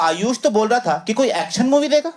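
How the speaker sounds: hammed-up innocent act for dad; bad acting. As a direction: overplay the innocent kid, badly. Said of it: "मैंने घटिया acting शुरू कर दी".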